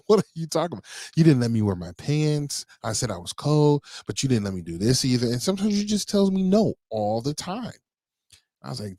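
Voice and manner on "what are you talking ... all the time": mocking child. Dad voices daughter's complaint.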